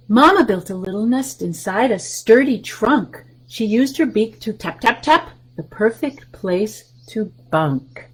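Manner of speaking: lively picture-book read-aloud; reading to children. Acted. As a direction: read the rhyme to the little ones.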